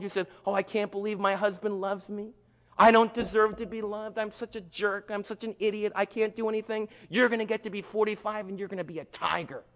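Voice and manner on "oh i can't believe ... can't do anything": lightly voiced meek wife, higher pitch; a mild put-on self-pitying lament; self-deprecating wife. Wife doubting her husband's love, mild self-pity. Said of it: "If you're a little wife here".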